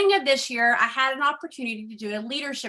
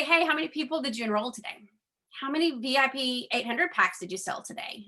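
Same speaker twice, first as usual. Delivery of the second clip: pushy upline quote. Retold or imitated. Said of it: "that would say".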